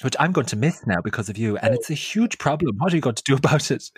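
mock rampage. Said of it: "I was on a rampage".

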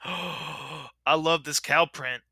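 slow, gasping awe; gasping delight. Real, not acted. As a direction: gasp in love with it. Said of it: "what the fuck sound was that".

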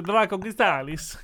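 "Draco Chrysalis" echoed as DRAH-ko kree-STAH-lis; imitated pronunciation. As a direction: playfully copy "Draco Chrysalis" with a long SAH. Playfully copying the co-host's pronunciation.

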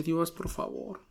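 soft, retold pleading prayer; tearful plea. Son praying in the hospital bathroom, soft tearful plea. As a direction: beg quietly, as if holding back tears. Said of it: "estaba llorando y le dije".

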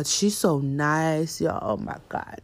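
ordinary talk

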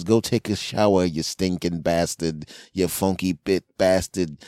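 a hint of a nagging mother; mildly voiced mom telling him off; scolding mom.

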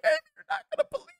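very high and fast mock excuse; hammed-up high-pitched rushed self; squeaky rushed excuse. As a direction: blurt it out in a squeak. Retelling his own excuse to Amy.

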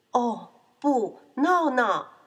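dismayed outcry. Acted. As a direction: exclaim in mock horror. Refrain of dismay at piglet. (夸张地惊呼)

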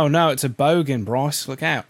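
put-on Aussie bogan talk; playful mock-Australian; Australian accent. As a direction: imitate an Australian warning a mate. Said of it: "when you have an Australian accent".

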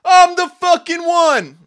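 repeated high, drawn-out screams; screaming. Retold or imitated. Alone at home chanting his self-belief, screaming. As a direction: scream it over and over, long and loud. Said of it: "I started screaming".

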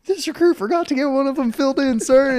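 high, loud sounding-off; imitated recruit report. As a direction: shout it out as a recruit to his instructor. Recruit reporting loudly to instructor.

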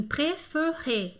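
"préféré" with the middle vowel as a muted schwa; middle accent removed. Shown as a demonstration. Teacher supposing the middle accent is gone, "préféré" with schwa middle. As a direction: say "préféré" as pré-feu-ré, no middle é. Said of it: "esse do meio não tenha".

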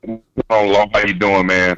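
phone line voice; coming through a phone call; over the phone. Real, not acted. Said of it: "I'm talking to you on the phone".

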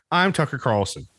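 lightly voiced cable news host signing off; a hint of a smug pundit's sign-off; mock Tucker Carlson. Podcaster spoofing a TV host's sign-off, light mock anchor. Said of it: "I know what Tucker Carlson would do".

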